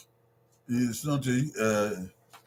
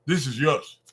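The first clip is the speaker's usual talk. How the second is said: put-on modelling a phrase to children; 5 dB louder than usual. Shown as a demonstration. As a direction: repeat "This is yours" as if handing food to a child. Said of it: "And you say".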